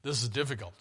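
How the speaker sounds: low, soft plea for prayer; quiet humble plea. Retold or imitated. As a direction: drop low and ask for prayer. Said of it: "I'm paraphrasing here".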